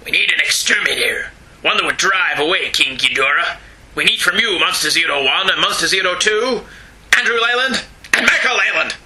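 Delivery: reading in a put-on Japanese accent; mock Japanese accent announcer. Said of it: "What is your Japanese accent?".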